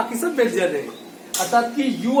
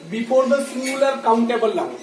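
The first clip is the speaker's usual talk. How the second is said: एप्पल-style teacher read, word by word; very slow dictation; much slower than usual. Shown as a demonstration. Teacher dictating the rule to the class, very slowly. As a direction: spell it out slowly so students can write. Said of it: "समझिए".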